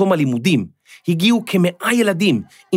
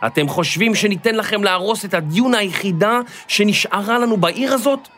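indignant call, higher as it goes; shouting into the mic; 5 semitones higher than usual. Acted. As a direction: challenge them through the microphone. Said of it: "צעקה מאיה לתוך המיקרופון". (קריאה נרגשת וגבוהה למיקרופון)

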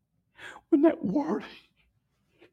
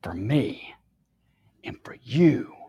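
hushed whisper; 7 semitones lower than usual. Retold or imitated. Preacher whispering his own words back to the crowd, hushed. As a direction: whisper it like a holy secret.

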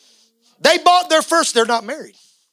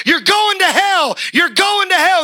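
mock condemning yell; 13 semitones higher, 4 dB louder than usual. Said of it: "we're screaming back".

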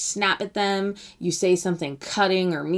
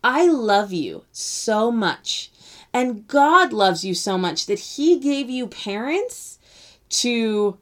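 put-on tender reassurance to kids; 4 semitones higher, slower than usual. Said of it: "I say".

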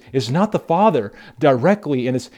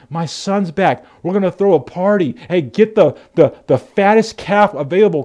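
joyful father; 3 semitones higher than usual. Retold or imitated. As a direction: call the servants in delight. Father shouting to servants.

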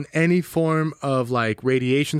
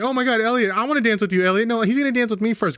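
put-on high, gushy girls fighting over him; mock eager fan voice; fawning club girls; 6 semitones higher, faster than usual. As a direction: play a starstruck girl begging for a dance. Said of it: "everyone in the club is like".

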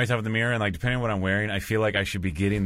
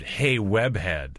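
bad acting; much slower than usual. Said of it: "What if I improv'd".

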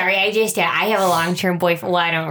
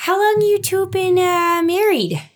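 nosy questions; 11 semitones higher than usual. Acted. Player prying about marriage.

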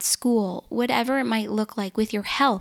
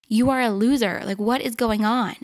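harsh self-talk; 4 dB louder than usual. Retold or imitated. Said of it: "said to myself".

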